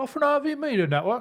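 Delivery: attempted put-on British accent. Reading the website line aloud in an attempted british accent. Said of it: "I can't do an accent".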